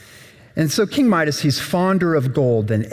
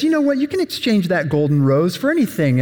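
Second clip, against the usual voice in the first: eager offer; 5 semitones higher, faster than usual. Acted. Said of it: "But he says".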